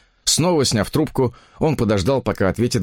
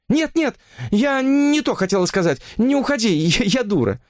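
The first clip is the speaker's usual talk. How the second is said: much higher, pleading woman's voice; desperate woman; 13 semitones higher than usual. Acted. Mistress begging her lover not to leave, desperate. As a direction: beg him not to hang up, high.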